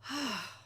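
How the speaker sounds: big breathy sigh of awe; blown-away sigh. Retold or imitated. Host recalling a member's spread, awed sigh. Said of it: "yours blew me away".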